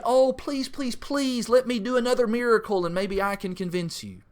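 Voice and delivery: high-pitched mock pleading; hammed-up begging to stay; mock begging Jesus. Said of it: "He will not beg and plead".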